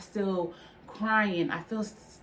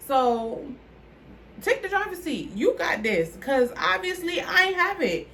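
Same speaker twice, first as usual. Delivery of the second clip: raised, pleading cry to the Lord; desperate prayer; 5 semitones higher, 3 dB louder than usual. Retold or imitated. Praying at her lowest, begging God to take the wheel, desperate and loud. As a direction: beg God to take over, loud and high. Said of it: "So I was like".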